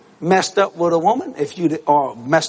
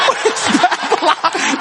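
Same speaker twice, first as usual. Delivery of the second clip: very slow, high-pitched comic question; eager men calling out; 13 semitones higher, much slower than usual. Retold or imitated. Three guys ask where such women come from, comically eager. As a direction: mimic guys desperate to find out.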